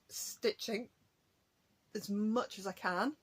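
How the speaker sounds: talking through hiccups; words broken by a hiccup. Real, not acted. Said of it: "I'm hiccuping".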